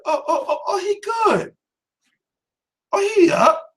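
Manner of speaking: high, laughing oh oh he good; relieved fan cheer. Retold or imitated. Fan cheering as Khan gets back up. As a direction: whoop with relief as he rises.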